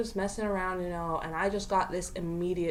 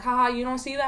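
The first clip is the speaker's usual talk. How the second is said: higher, teasing fake ha-ha; mock laughing taunt; 5 semitones higher, faster than usual. Friend teasing her outside the car, mock laughing. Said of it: "She just starts laughing".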